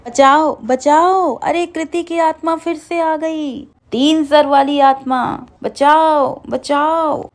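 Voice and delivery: panicked, yelling to be saved; screaming for help. A narrator's reading. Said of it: "तभी मोहन जोर जोर से चिल्लाता है".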